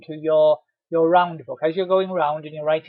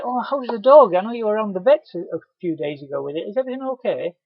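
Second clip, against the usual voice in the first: louder, higher caring question; cheery concern; 4 semitones higher, 6 dB louder than usual. Pretend. Delivery man asking a customer about her sick dog, cheerily concerned. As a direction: ask brightly, showing you care.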